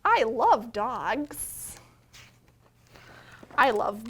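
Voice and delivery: slow, loud storybook reading; reading to children. A narrator's reading. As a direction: read each page out slowly to the little ones. Reads picture book to children.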